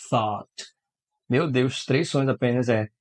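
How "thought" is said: "Thought" as "thót", low; English word. Shown as a demonstration. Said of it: "como é que fala isso". (pronúncia de thought)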